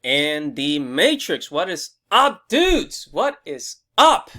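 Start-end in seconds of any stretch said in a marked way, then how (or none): 1.5-4.3 excited. Real, not acted. Hyped vlog intro greeting.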